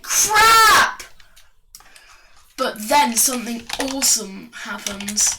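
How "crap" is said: high, loud drawn-out yell; Mario's exclamation. Acted. Mario imprisoned by Koopa Troopers, hammed-up yell. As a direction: yell it in cartoon dismay. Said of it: "and Mario's just like".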